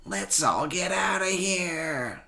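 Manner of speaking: high, frightened raptor voice; panicked raptor. Acted. Scared raptor urges his friends to flee. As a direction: get out fast, scared.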